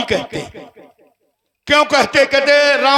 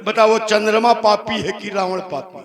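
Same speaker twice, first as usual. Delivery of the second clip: normal talking voice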